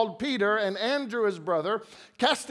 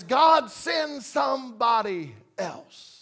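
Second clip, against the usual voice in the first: mock honest plea; slower than usual. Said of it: "what we're really saying is".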